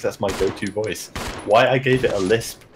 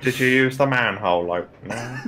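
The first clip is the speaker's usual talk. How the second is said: health and safety bloke; 2 semitones higher than usual. Shown as a demonstration. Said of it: "There is also health and safety bloke".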